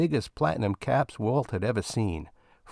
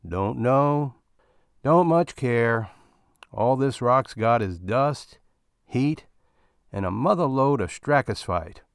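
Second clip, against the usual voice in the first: fed-up miner, higher and louder; weary miner; 3 semitones higher, 4 dB louder than usual. Acted. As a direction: shrug it off like a tired digger. Second miner answers wearily.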